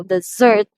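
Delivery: "dessert" with a loud, long SSERT; second-syllable stress. Shown as a demonstration. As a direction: lean on and lengthen the end of "dessert". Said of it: "is pronounced longer than the first syllable".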